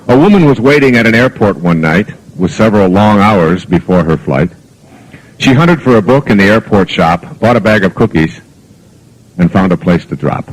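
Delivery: lightly lilting poem recital; gentle storyteller's poem reading. Acted. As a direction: read the poem to the audience as a story. Reads a poem aloud.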